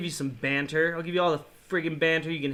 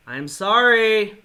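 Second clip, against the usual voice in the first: slow, louder apology; drawn-out loud sorry; 6 dB louder, slower than usual. Real, not acted. Gamer apologizing to chat for swearing, slow and louder.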